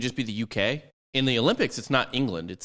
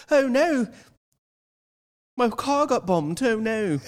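much higher, slow mock wail; hammed-up dismay; 14 semitones higher, 3 dB louder, slower than usual. The bomber back home playing the victim, in hammed-up dismay. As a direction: wail it like a prissy fake victim. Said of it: "he goes back and he's like".

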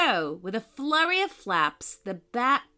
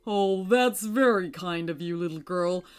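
appreciative, stately moon voice; kindly moon character; 2 semitones lower than usual. A narrator's reading. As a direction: accept the child's offer kindly.

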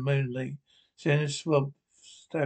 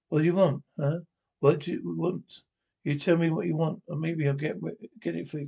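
angry demand; 2 semitones higher than usual. Acted. Confronting the double.

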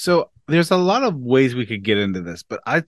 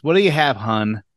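put-on Boston accent; 4 semitones higher than usual. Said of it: "doesn't work unless there's an accent".

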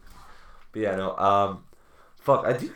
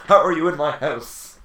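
Topher Grace blanking; 5 semitones higher, 8 dB louder than usual. Acted. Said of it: "He just blanks his mind".

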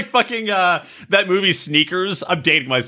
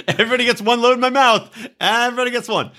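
mock Hannah voice; 8 semitones higher, faster than usual. Imitating Hannah's rule.

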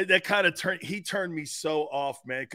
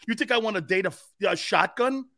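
laughing retort; 4 semitones higher than usual. Retold or imitated. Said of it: "I go".

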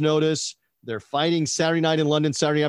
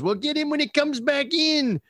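retold yell; 12 semitones higher than usual. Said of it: "the one guy yells".

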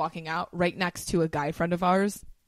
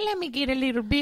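laughing; 5 semitones higher than usual. Pretend. Laughing creepy come-on.

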